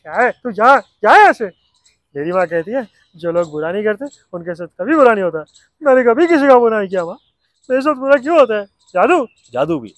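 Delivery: Rohit from Koi Mil Gaya. Retold or imitated. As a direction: play the innocent boy Rohit, whiny and loud. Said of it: "अब आई कोई मिल गया".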